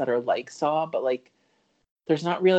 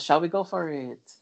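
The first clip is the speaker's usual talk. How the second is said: lightly imitating a singer's French Canadian accent; a hint of French Canadian accent; 2 semitones higher than usual. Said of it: "But in her French Canadian accent".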